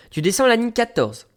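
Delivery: high, mimicked instruction; lady giving directions. Station lady sending a traveller down, high mimicked voice. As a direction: imitate her, pitched well up. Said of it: "Elle me dit".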